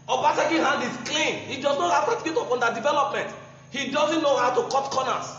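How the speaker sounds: mock the claim while laughing through it; scornful laughing jibe; sarcastic mockery. Real, not acted. Mocking opponent's certificate claim.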